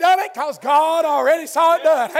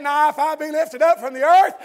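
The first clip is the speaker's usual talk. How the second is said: preaching at full force; 2 semitones higher than usual. Acted. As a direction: preach it out until the voice breaks.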